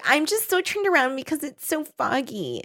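high, soft damsel act; little lost girl. Retold or imitated. Jessica luring Todd in the fog, little lost girl. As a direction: play up helpless little girl lightly. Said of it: "like, little lost girl".

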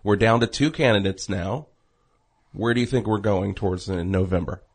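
fake radio voice. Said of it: "knock off the fake radio voice".

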